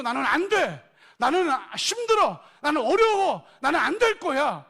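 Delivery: loud, high cry of defeat; preached voice of despair. Acted. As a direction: cry out their hopelessness. Voicing defeated believers' despair.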